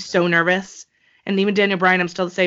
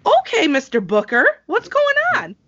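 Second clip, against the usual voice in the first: much higher, sing-song teasing impression; mock-impressed squeak, far higher; mock amazement; 12 semitones higher, 4 dB louder than usual. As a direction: tease him like a know-it-all commentator. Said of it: "I was like".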